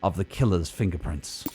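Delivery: noir detective. Acted. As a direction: brood over the clues like a hardboiled detective. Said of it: "I like both voices".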